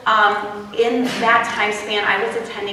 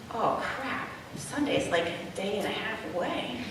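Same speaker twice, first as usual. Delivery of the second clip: dread; 12 dB quieter than usual. Retold or imitated. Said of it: "it would be like".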